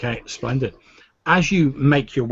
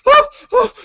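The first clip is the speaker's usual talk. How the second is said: mock shrieks; 12 dB louder than usual. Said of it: "this woman shrieking".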